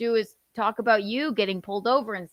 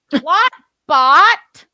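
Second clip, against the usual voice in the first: laughing; 6 semitones higher, 12 dB louder than usual. Real, not acted. Laughing at cat name.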